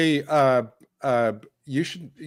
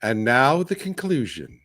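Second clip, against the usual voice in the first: announcer voice. Retold or imitated. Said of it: "the voice goes".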